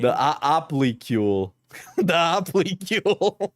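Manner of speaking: "oplicule" crammed into fewer syllables; squashed syllables. Shown as a demonstration. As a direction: try out "oplicule" as a clumsy shortened word. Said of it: "too many syllables in that word".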